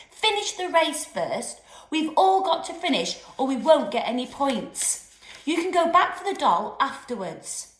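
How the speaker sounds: angry yell. Acted. Giles yelling at them.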